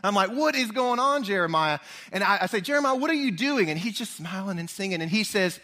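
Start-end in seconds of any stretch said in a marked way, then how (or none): 0.3-1.8 higher, exasperated call to Jeremiah; mock-annoyed shout from the hallway. Angry at dawn smell. 2.6-3.7 higher, exasperated call to Jeremiah; mock-annoyed shout from the hallway. Angry at dawn smell.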